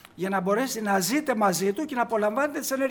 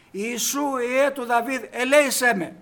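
a preacher's retold cry, raised voice; blind man calling out; 3 semitones higher, 5 dB louder, slower than usual. Blind man crying out to the passing Jesus, raised voice. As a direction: call out to Jesus as he passes by. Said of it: "αρχίζει και φωνάζει αυτός".

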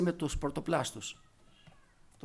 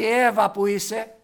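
calling out; 10 dB louder, slower than usual. Acted. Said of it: "δεν φωνάζει".

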